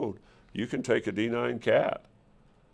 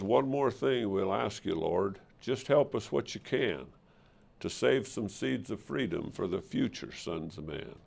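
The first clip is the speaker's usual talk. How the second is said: softly recited cowboy verse; cowboy poetry; 4 dB quieter than usual. Retold or imitated. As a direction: read it like a heartfelt prayer poem. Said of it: "the last verse of a cowboy poem".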